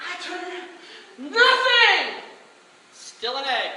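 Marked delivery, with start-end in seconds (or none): 1.3-2.2 loud, high grand "Nothing!"; showman reveal shout. Retold or imitated. Performer revealing the egg trick, shouting. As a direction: announce it like a magic trick. The speaker's turn.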